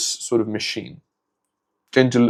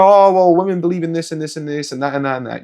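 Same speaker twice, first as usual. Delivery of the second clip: higher, rattled-off mock objection; mocking objector; 5 semitones higher, faster than usual. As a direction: imitate an objector running through a tedious list. Voicing imagined objectors mockingly.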